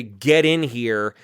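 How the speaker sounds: low, slow, forceful order; imitating a command. Retelling the voice on the recording, imitated forceful command. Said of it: "you hear this voice say".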